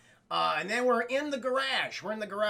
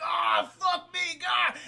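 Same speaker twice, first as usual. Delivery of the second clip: higher and louder, frantic; panicked yelling; 8 semitones higher, 3 dB louder, much slower than usual. Acted. Chad seeing police sirens, loud panicked yelling. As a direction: shout it in a panic.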